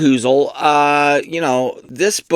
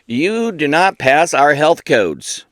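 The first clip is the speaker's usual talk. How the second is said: slow, lightly voiced inspector; measured, hammed-up official announcement; mock official verdict; 3 semitones higher, slower than usual. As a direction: pronounce it like a mock-solemn ruling. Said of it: "I thought it'd be like".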